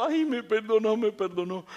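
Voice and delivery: happy relief. Retold or imitated. Pastor running off after debt forgiven, giddy happy relief. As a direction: gush like you just got off the hook. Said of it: "me voy corriendo contento".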